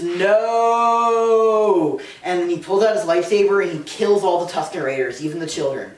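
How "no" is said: mock scream. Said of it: "And he screams".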